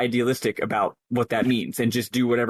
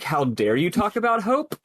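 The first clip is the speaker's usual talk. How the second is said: a mildly indignant, somewhat higher "how dare you"; retold anger; 6 semitones higher than usual. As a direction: scoff at the very idea of hope.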